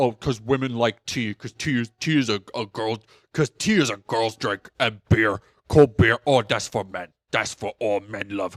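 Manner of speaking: put-on low, boozy, drunk-sounding voice. Mocking a man's view of cold beer: alcoholic Cookie Monster voice. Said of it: "I turned into, like, alcoholic Cookie Monster".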